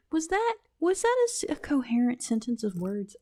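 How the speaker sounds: high, laughing self-mockery; cracking up at yourself. Real, not acted. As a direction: giggle through the question. Laughing at own garbled speech.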